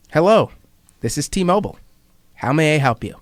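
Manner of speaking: imitating a foreign accent working hard to sound American; almost American accent. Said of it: "in an accent that was so close to being American".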